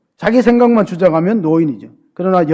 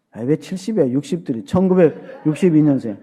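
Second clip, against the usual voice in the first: ordinary talk, nothing marked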